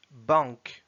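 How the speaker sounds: "Banque" as Russian "bank", falling; Russian pronunciation. Shown as a demonstration. Teacher reading words with learners, "Banque" in Russian. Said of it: "s'entraîner à lire les mots".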